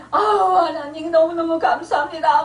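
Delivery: tearful, crying thanks to God; mild mock sob of gratitude; imitated wailing thanks. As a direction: act out a sobbing convert. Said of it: "막 통곡을 하고".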